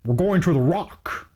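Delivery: put-on a lightly done, slow Sean Connery Scottish accent; slow Sean Connery Scottish drawl, barely put on; Sean Connery impression. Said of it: "That was my Sean Connery impression".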